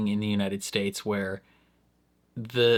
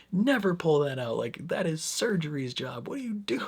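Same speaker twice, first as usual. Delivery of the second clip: high, hushed scolding; scolding staff; 6 semitones higher than usual. Retold or imitated. Staff scolding the doctor, high and hushed. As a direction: hiss the rule at him. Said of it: "They're like".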